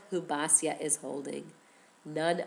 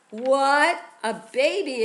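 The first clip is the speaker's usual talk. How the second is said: surprised what; 6 semitones higher, 7 dB louder, slower than usual. Acted. Teller's surprised reaction to baby.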